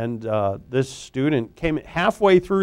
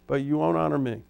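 softer, hushed, falling on "won't honor me"; quiet; 7 dB quieter, faster than usual. Acted. Preacher to the congregation, a hushed repeat of God's complaint.

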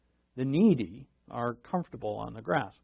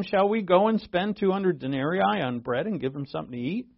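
sarcastic; 4 semitones higher than usual. Retold or imitated. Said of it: "Doesn't that sound like sarcasm?".

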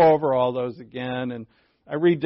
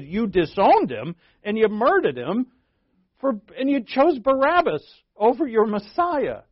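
Peter accusing the leaders, higher and louder; bold accusation; 7 semitones higher, 4 dB louder than usual. Retold or imitated. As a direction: fling the charge at the Sanhedrin with courage. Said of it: "I would imagine he's saying it pretty boldly".

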